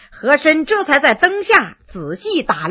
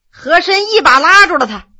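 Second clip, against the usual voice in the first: usual speaking voice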